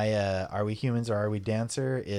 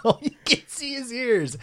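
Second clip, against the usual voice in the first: surprised; 5 dB louder than usual. Real, not acted. High surprised exclamation.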